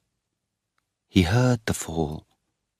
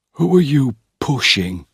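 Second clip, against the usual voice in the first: higher, louder angry challenge; Geoffrey angrily challenging his brother, higher and louder; 7 semitones higher, 5 dB louder than usual. A narrator's reading. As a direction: bristle back at him. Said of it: "said Geoffrey angrily".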